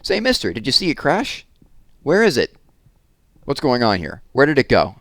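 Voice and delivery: high, loud, breathless questions from an excited crowd. A narrator's reading. Townsfolk clamouring at the professor, high and loud with excitement. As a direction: pile the questions on top of each other, all worked up. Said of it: "ran excitedly across the field".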